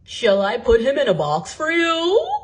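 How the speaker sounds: a saleswoman serving a customer; courteous sales lady voice. A narrator's reading. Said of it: "the sales lady asked".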